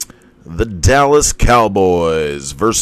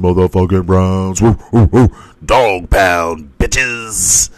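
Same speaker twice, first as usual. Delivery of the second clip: fan cheer; 5 dB louder, slower than usual. Real, not acted. Cheering on his team.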